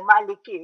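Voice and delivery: "Maliki" with a final "kee" sound; common mispronunciation KI. Shown as a demonstration. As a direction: finish "Maliki" on ee, as people mistakenly do. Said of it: "So here also they go".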